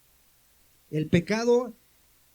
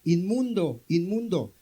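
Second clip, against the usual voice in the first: mock shout; 3 dB louder, slower than usual. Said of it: "tenía que gritar".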